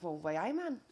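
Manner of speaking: a shy, half-hearted stab at a Geordie accent; Geordie accent attempt. Shown as a demonstration. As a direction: try Geordie, unsure of yourself. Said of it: "I'm just gonna say".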